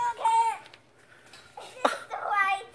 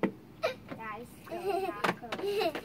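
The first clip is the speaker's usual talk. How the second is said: whiny complaint; 3 semitones lower, 7 dB quieter, slower than usual. Real, not acted. Soaked child whining.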